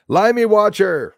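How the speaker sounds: loud high call of a viewer's name. Real, not acted. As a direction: shout the name across the room. Calling out a chat viewer.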